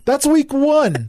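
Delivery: slow, high, dry delivery; deadpan punchline again. Real, not acted. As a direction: repeat it slowly for effect. Repeated punchline.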